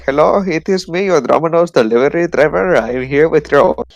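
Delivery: imitating a thick Indian accent; light Indian accent impression, delivery driver on the phone. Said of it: "he had, like, a very thick Indian accent".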